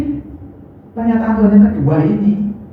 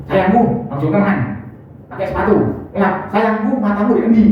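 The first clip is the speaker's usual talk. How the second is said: snapping endearment. Shown as a demonstration. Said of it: "Tapi nek bentak-bentak".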